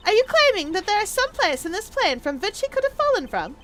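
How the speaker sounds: high, swooping character voice; high-pitched, indignant challenge; incredulous challenger. Acted. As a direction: question it in theatrical disbelief.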